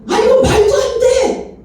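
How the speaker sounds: high, loud, stretched-out exclamation; astonished disbelief. Retold or imitated. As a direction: cry out as if you can't believe it. 방언 찬양에 놀란 속마음. (믿기지 않는 듯 높고 크게 길게 외침)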